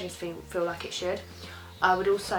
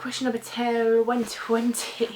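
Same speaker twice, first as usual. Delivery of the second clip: higher, louder goofy stumble; playful fumble; 5 semitones higher, 4 dB louder than usual. Real, not acted. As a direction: trip over the number, drawing out the end. Jokily fumbling the question number.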